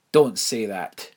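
loud angry growl; a loud growl warning her off. Acted. Imelda turns on the headmistress, loud angry growl. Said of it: "she growled".

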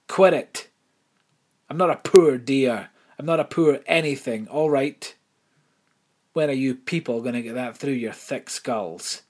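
loud, furious outburst; angry. Acted. Imelda rejects the headmistress's pity, loud furious outburst. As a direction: hurl it back at her, loud.

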